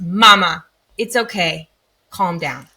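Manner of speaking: daughter's calming words, lowering as they go; small daughter. Retold or imitated. Daughter to her worked-up mom, calming. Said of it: "Sufi looks at me and she goes".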